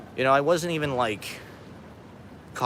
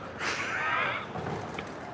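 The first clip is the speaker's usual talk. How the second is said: soft, breath-only laughter; stunned laugh; 10 dB quieter than usual. Real, not acted. Streamer realizes a star interrupted him, stunned laugh. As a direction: laugh quietly in disbelief.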